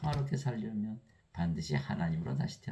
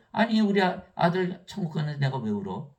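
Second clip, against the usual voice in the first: retold indignant reply; 6 semitones higher, 4 dB louder than usual.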